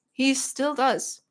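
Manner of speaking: "He still does" drawn out slowly; slow emphasis. Real, not acted. Streamer vouches for Dad's gaming, slow emphasis on "He still does". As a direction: stretch each word of "He still does" for emphasis.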